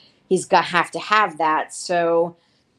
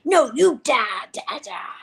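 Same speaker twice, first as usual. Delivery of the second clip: drawn-out pretend fighting lines; mock battle cry; 6 semitones higher, slower than usual. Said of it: "reenacting the last night's adventures".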